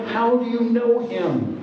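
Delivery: slow, high, lightly played worried dad; a hint of protective-dad interrogation; inner dad. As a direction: imitate a dad questioning his daughter. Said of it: "My inner dad was coming out".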